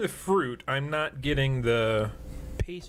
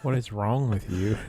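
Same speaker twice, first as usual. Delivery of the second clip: quoted exasperation; 5 semitones lower than usual. Retold or imitated. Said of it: "He said".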